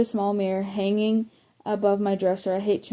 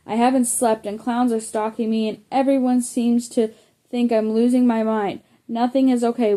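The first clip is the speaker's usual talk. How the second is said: louder upset outburst; bursting out; 3 semitones higher, 4 dB louder than usual. Acted. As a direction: snap back, fed up and frayed. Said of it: "I burst".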